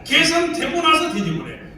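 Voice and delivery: ordinary delivery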